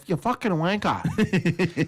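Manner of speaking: slow, drawn-out fake-British insult; terrible British accent. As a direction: savour it in a bad British accent. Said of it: "Terrible accents".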